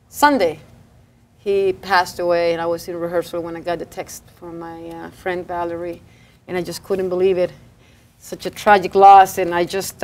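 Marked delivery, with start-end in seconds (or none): 1.4-10.0 subdued, low and soft; quiet sorrow over a tragic loss; hushed, grieving delivery; sad. Real, not acted. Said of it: "I'm still very sad".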